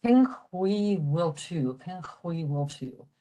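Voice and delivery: slow Irish greeting "Cén chuaigh mhol tú"; careful Irish pronunciation demo. Shown as a demonstration.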